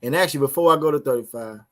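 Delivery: normal talking voice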